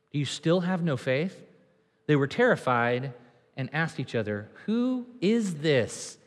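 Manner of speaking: soft, slow, hushed awe. Acted. Disciples whispering in awe after the storm, soft and slow. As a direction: let it fall to a low murmur.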